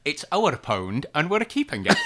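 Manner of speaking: catchphrase with a light Scottish lilt; Alex Salmond impression. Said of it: "Do it again".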